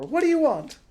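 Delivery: high, loud shout through a door. Acted. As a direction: call out loud to the stranger outside. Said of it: "she shouted through the door".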